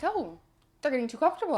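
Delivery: high, mocking sarcasm; mocking the commenter; sarcastic retort. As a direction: sneer it sweetly.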